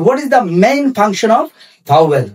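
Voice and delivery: very slow, word by word English; slow dictation. Shown as a demonstration. Teacher dictating a definition to students, very slow. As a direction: spell it out slowly for students to copy. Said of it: "দেখেন, the main function of vowel".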